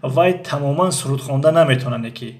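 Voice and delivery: in colloquial Tajik dialect, lightly; a light touch of Tajik accent. Shown as a demonstration. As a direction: say it like a Tajik speaker chatting, barely changed from normal.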